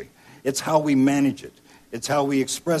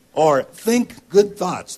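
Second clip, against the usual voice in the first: mock enthusiasm; 8 semitones higher, 8 dB louder, much slower than usual.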